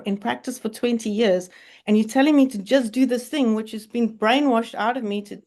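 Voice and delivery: mild mock indignation, arguing with an inner voice; cross outburst. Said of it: "I was so cross with this thing".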